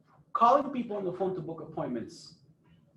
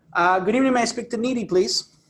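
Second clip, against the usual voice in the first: engaging phone tone. Shown as a demonstration. Coach demoing a call to a lead, lively rising tone. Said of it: "And notice my tone".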